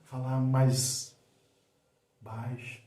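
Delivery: slow, hushed, fading almost to nothing. Shown as a demonstration. Coach showing how to draw attention, very quietly. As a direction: let it sink away on the last word. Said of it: "Quando você quer chamar atenção".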